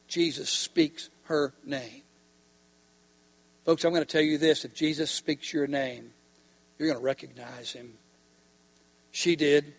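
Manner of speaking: low, soft intimate words; preacher confiding to the congregation, quiet; hushed preaching. Real, not acted. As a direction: draw the room in close. Preacher drops voice.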